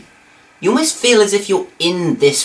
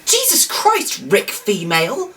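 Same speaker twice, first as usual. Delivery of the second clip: high startled outburst; 6 semitones higher, slower than usual. Real, not acted. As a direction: jump out of your skin. Startled by the creepy reading.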